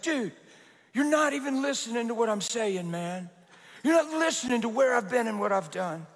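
mildly pressing, retold; intense. Ex-addict pressing the pastor to listen, mildly intense. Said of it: "he was a little intense".

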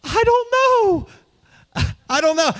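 mimicked tearful bewilderment; imitating crying wife. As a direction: play the wife helpless through tears. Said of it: "she said".

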